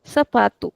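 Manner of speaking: "Sapatu" with the stress on the middle "pa"; teacher modelling "Sapatu", second-last syllable stressed; model pronunciation. Shown as a demonstration. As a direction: say "Sapatu" as sa-PA-tu, lengthening the "pa". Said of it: "This is how we pronounce it".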